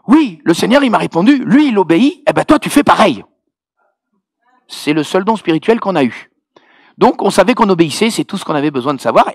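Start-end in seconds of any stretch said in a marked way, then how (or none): 0.1-3.2 emphatic, raised imitation of Ivorian accent. Sister passes on God's answer, emphatic Ivorian-accented imitation. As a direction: relay it firmly in a put-on Ivorian accent. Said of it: "avec son bel accent ivoirien".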